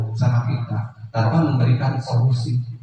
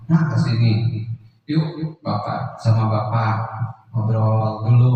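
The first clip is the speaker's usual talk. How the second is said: easygoing, unhurried invitation to chat; friendly teacher; 2 semitones lower than usual. Acted. Teacher as friend inviting pupil to talk, friendly. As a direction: coax the pupil over like a friend, acted. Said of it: "sebagai teman".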